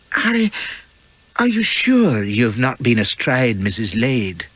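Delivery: lightly voiced young wife, innocent question; a guileless young wife asking outright; Elspeth's voice. Wife to husband in the dark cabin, lightly innocent.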